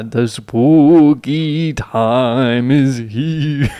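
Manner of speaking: very slow hissing feral vampire. Acted. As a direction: draw it out like a hungry vampire. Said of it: "do the vampire voice".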